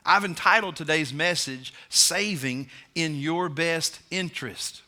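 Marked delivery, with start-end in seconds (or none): 1.9-4.8 slow title with Interest leaned on hard; sermon title with the weight on Interest; emphasis on interest. Shown as a demonstration. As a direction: say it slowly and lean on the word Interest. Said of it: "with the emphasis on the word interest".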